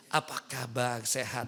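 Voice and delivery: low, very soft greeting; normal gentle voice. Shown as a demonstration. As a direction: ask softly, without any shouting. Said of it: "suaranya yang biasa aja".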